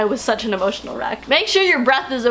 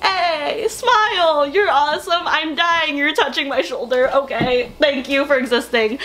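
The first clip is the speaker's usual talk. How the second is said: higher, bubbly rush of excited words; gushing fan; 4 semitones higher, slower than usual. Retold or imitated. Fan gushing during a quick selfie, excited and higher. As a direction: gush like a starstruck fan.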